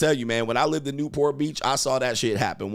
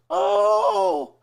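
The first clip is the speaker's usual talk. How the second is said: very high, loud falsetto moans; hammed-up ecstatic oh from a woman licked by a dog; mock orgasmic moan; 4 dB louder than usual. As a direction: ham up a woman's blissful moan over a dog. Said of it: "going through her orgasmic bliss".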